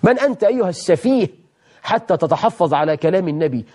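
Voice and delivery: rebuke. Acted. Rebuking the doubter.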